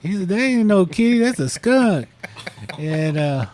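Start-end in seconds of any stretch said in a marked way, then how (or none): 0.3-2.1 pitched high in disbelief; incredulous insisting. Retold or imitated. Boyfriend tells girlfriend her kitty is a skunk, high incredulous. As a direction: set her straight, half laughing at it.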